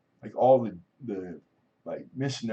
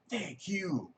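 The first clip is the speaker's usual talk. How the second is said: awkward earnest thanks; 9 semitones higher, 6 dB quieter than usual. Retold or imitated. His try-hard thank you.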